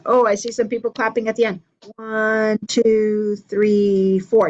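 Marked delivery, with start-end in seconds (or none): 2.0-4.5 steady count-in. Shown as a demonstration. Teacher counting in the class. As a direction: count them in. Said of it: "Let's try that one more time".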